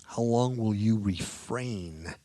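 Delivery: slow, drawn-out cry, loud on the opening words. Acted. Preacher reading the martyrs' cry to the Lord, loud crying out. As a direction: call it out in measured, weighty phrases. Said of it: "with a loud voice".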